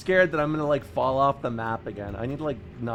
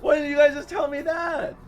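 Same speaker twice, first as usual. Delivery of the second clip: indignant disbelief; 11 semitones higher, 9 dB louder than usual. Real, not acted. Learning what zine really means.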